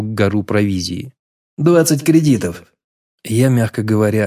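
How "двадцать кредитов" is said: lazy higher merchant voice. A narrator's reading. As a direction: drop the price like a bored trader. Merchant names price.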